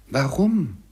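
high, loud cry falling away; exclaimed question. A narrator's reading. Nephew presses his uncle for an answer, crying out. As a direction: throw the word out in exasperated appeal. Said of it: "rief Scrooges Neffe".

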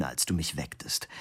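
whispered, yawning complaint; sleepy whisper. Acted. Husband grumbling sleepily at his wife, whispered. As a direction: fade into a drowsy whisper. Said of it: "gähnte verzweifelt".

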